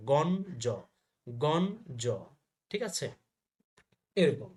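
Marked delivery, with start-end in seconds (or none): 0.1-2.0 গণ জ said in two parts, "gon-jo"; n before j. Shown as a demonstration. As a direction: clear n, then j in গণ জ. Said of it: "ন বর্গীয় জ হবে". (গণ জ-তে "ন-জ" উচ্চারণ, "গন-জ")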